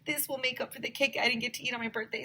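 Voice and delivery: put-on a light high girl's voice, breathless over cake; lightly voiced eager girl; excited Emily. A narrator's reading. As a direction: gush about cake like a little girl. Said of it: "said Emily".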